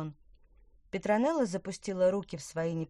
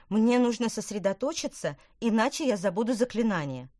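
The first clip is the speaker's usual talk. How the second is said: witch voice; 4 semitones higher, 6 dB louder than usual. A narrator's reading.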